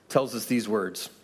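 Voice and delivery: usual speaking voice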